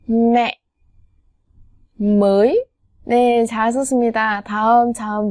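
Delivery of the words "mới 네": usual speaking voice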